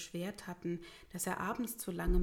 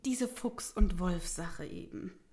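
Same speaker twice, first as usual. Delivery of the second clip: awkward, halting explanation; uncomfortable; 3 semitones higher, 3 dB louder than usual. Acted. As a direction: edge reluctantly round a touchy subject. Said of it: "unbehaglich rang Pius die Hände".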